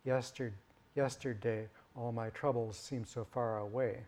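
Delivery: lyric again with the beats marked; song line stepped through its metrical beats; second grid reading. Shown as a demonstration. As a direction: recite the line as the grid counts it. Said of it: "that's what that metric grid is saying".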